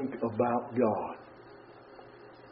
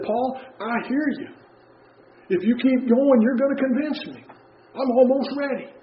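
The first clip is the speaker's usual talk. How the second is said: higher, half-persuaded king voice; voicing Agrippa; 10 semitones higher, 3 dB louder than usual. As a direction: play Agrippa, nearly convinced but hedging. Preacher voices Agrippa's reply.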